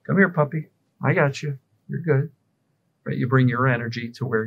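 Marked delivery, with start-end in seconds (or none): 0.0-2.3 soothing a dog. Retold or imitated. Owner calming a scared dog in a storm, coaxing. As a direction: coax a frightened puppy close. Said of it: "a scared dog on a thunderstorm".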